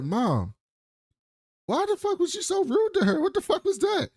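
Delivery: high, exasperated son voice; high-pitched mock son complaining to mom; whiny son. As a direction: squeak it out like an outraged teen son. Voicing son scolding mom.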